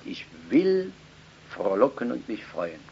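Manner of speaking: quiet. Acted. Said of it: "da redet er das Wort".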